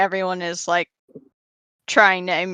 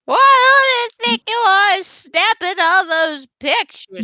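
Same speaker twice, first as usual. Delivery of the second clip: cartoon character voice; 10 semitones higher, slower than usual. Mocking a cartoon character's line.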